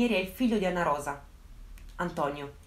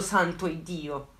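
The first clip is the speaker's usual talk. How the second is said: exasperated sigh; 4 semitones lower, 3 dB quieter, much slower than usual. Real, not acted. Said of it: "exasperated exclamation".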